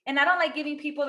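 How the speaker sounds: high, loud retort, re-enacted; exasperated protest. Retorting to teasing about a guy.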